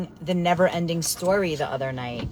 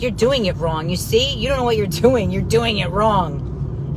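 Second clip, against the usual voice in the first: a hint of a nagging inner hag, slowing on the last line; 2 semitones higher, 3 dB louder than usual. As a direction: lightly voice the scolding hag inside your head. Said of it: "my inner hag shows up and she's like".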